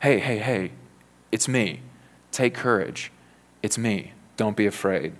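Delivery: comforting parent. Acted. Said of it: "like a parent comforting a frightened child".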